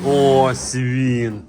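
slow, drawn-out coaxing; drawn-out loving talk to a pet; slow coaxing coo to a bull. Real, not acted. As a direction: coax the bull gently and slowly. Farmer coos to his bull.

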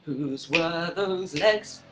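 drawn-out eerie mystery voice; mock creepy narrator; slow spooky whisper-ish. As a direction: stretch each word like a ghost story. Slower spooky repeat.

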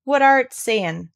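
slow, loud, high and irritated; testy. A narrator's reading. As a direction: snap out each word slowly and testily. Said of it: "he asked rather testily".

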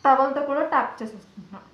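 speaking into cloth; muffled through a towel. Real, not acted. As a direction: face pressed in towel. Seen 0: Pink towel fully covers face and mouth while patting dry.

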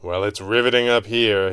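dry deadpan delivery. A narrator's reading. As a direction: say it with no expression. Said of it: "he deadpanned".

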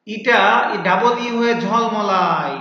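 lightly acted rhyme, drawn out; slow, lightly theatrical recitation; letter E speaking. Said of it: "এই যে কি বলেছিল".

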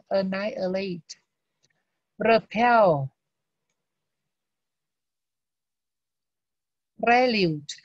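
annihilate, repel, prelude read slowly and clearly; careful vocabulary drill; model reading. Shown as a demonstration. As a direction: drill each word out for the class. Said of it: "bây giờ mình đọc lại mấy từ này".

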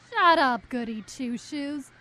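loud, sharp shut up; angry snap. Acted. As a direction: cut her off loudly in a fight. Acted quarrel with rival girl.

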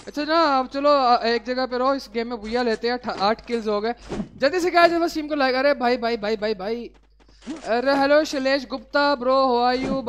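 loud, high hype; excited streamer. Real, not acted. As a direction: pump up the viewers. Hyping stream, greeting viewer.

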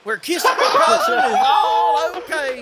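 slow, loud, hammed-up Southern drawl; mock Carolina drawl, loud and slow. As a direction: ham up a hillbilly, laughing. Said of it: "he sounds more South Carolinian than us".

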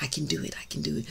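a near-silent affirmation; silent inner words. Shown as a demonstration. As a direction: say it inside your head. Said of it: "say it silently in your mind".

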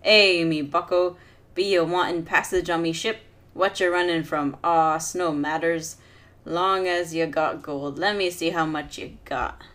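a light hint of a slurring pirate captain; lazily voiced drunk captain; drunken slur. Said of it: "drunkenly slurs".

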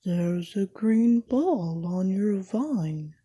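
slow, gloomy donkey voice; Eeyore. Acted. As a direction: drag it out in a dull mopey tone. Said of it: "said Eeyore".

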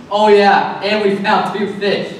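mock-pleased "oh yeah"; sarcastic. Disciples reporting meager food to Jesus, sarcastic. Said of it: "I wonder if this next part is sarcastic".

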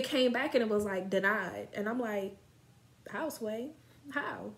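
talking around hookah tip; mouthpiece against lips. Real, not acted. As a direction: lips pressed on pipe. Seen 1: Hookah mouthpiece held against lips while speaking these words.

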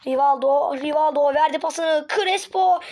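excited play-by-play calling the shot; match commentary. Acted. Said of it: "spikerlik değil de anlatacağım".

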